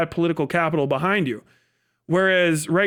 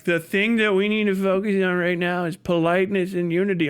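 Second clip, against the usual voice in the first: a hint of a prissy politician; lightly mock a prim Democrat leader. Mocking Democrat leaders preaching politeness, lightly voiced. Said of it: "All the rest of them are like".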